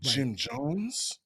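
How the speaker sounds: questioning, voice climbing on the name; startled recognition. Retold or imitated. Listeners reacting to hearing Guyana, startled recognition. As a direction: ask it as if the name just clicked. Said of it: "they always get that look like".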